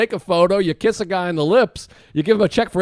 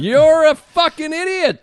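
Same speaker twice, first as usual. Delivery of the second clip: mock serious; 6 semitones higher, slower than usual. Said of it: "I'm gonna get serious".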